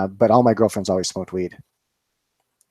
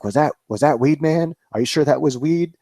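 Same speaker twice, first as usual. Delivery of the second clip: imitating a panicked dad, pitched higher; mock panic, voice climbing higher with each question; retold freak-out; 5 semitones higher than usual. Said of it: "He's, like, freaking out".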